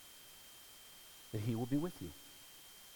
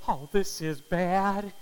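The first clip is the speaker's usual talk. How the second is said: mother's dismay; 5 semitones higher, 9 dB louder, slower than usual. Retold or imitated. Mother's horrified thought.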